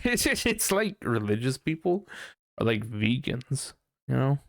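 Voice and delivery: normal talking voice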